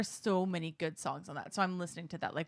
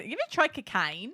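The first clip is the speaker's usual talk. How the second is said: higher, put-on Australian accent; 4 semitones higher than usual. Shown as a demonstration. Repeating her party trick, Australian accent. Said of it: "I have a pretty good Australian accent".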